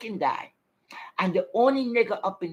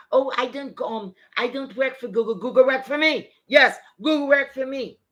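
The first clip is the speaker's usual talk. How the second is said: mocking imitation; 2 semitones higher, 4 dB louder than usual. Mockingly acts out her boast.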